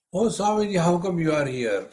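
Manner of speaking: mildly surprised, starting high; surprised greeting. Retold or imitated. Fan spots the swami at an airport, surprised greeting.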